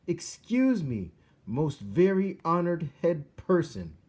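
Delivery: high, slow mouse voice straining to be heard; a tiny mouse calling up to a king at full volume; as loud as he can. A narrator's reading. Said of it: "He spoke as loudly as he was capable".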